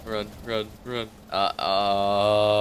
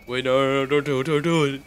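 desperate pleading; 5 semitones higher, faster than usual. Real, not acted. Pleading as character dies.

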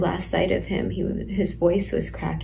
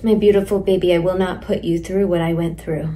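emotional outburst; 7 dB louder, faster than usual. Real, not acted. Emotional letter to her baby.

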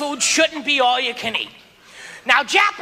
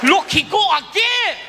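mock yelling owner; 4 semitones higher than usual. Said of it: "He started screaming at me".

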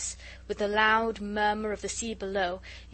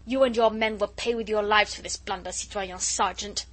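vicious threat; 4 dB louder than usual. Acted. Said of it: "said Chauvelin viciously".

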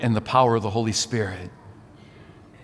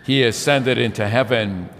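steady, even-pitched congregational recitation; measured, solemn profession of faith in short, evenly paced phrases; creed recitation; 3 dB louder than usual. Real, not acted.

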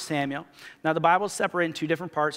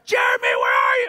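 low, fast, loud call from another room; mock yell from indoors; yelling from inside; 14 semitones lower, 7 dB louder, faster than usual. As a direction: holler for him through the house. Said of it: "I hear her yelling inside".

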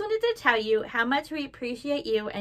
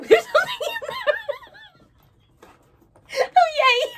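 delighted surprise; 6 dB louder than usual. Real, not acted. Finds a surprise in the lining.

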